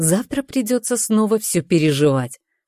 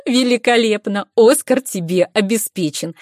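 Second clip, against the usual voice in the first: excited praise; 5 semitones higher, 4 dB louder than usual. Acted. Praising friend's acting, laughing.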